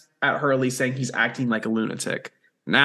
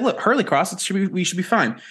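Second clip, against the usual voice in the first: mild, reasonable suggestion; acceptable tone; 5 semitones higher than usual. Acted. Showing the kinder way to say it, reasonable tone. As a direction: put it reasonably, as a polite alternative. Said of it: "it was the tone. You can be like".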